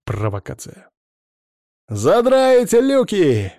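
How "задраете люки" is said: high, slow, gleeful shout; cheerful yell. A narrator's reading. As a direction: yell it with glee. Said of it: "весело заорал Дым".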